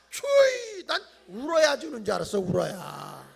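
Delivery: mock tearful child's whine; sobbing child. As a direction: whimper like a crying son. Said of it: "아이". (울먹이는 아이 흉내)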